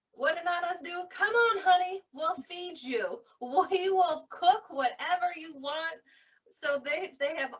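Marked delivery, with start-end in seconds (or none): 0.1-6.0 a lightly voiced grandma, higher and coaxing; Nana's comforting voice. Nana soothing her crying granddaughter at the door, higher and coaxing. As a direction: coax her in like a doting grandmother.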